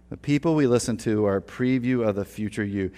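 "The people" stressed, spoken slowly for note taking; slow emphatic dictation. Shown as a demonstration. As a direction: repeat it deliberately for note taking. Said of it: "Write this down".

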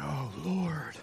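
a quiet, humbled sorry; hushed repentant prayer. Retold or imitated. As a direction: breathe it out like a confession. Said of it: "You come to God and say".

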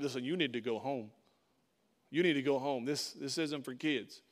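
a low, quiet brush-off; dismissive older brother. Acted. Brothers sending young David home from battle, dismissive.

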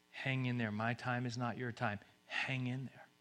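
softly reassuring; quiet, patient comfort; hushed encouragement. Acted. God asks the weary to wait on his time, hushed. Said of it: "he's whispering".

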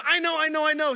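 put-on high, loud eager kid blurting it out; bouncing in his seat to be picked; excited little boy. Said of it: "He was so excited".

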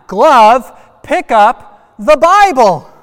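full-out high command, last words stretched long; enthusiastic shout. Shown as a demonstration. Final try with parents joining the kids, enthusiastic loud shout. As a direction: belt it out with all your enthusiasm. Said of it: "Say it with enthusiasm".

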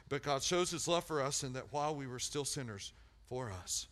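measured read ending in a whispered Christ died; scripture reading fading to whisper. Real, not acted. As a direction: let the verse fade to a whisper.

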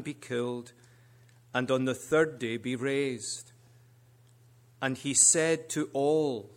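solemn, rising public reading; scripture reading. Acted. Preacher reading Luke aloud to the congregation, solemn. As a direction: proclaim the Gospel text with weight.

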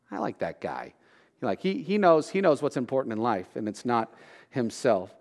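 soft, low, admiring aside; hushed approving aside; quiet approval. Retold or imitated. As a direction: say it under your breath, won over. Listener's approving reaction.

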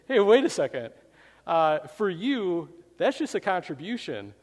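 a pig objecting sharply to the chicken's plan; indignant pig. Acted. The pig protests loudly to the chicken.

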